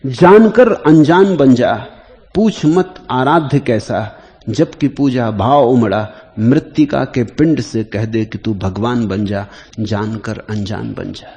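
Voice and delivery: slow, measured devotional verse, opening loud; verse recitation. Acted. Teacher reciting a verse on worship to the gathering, slow poetic recitation.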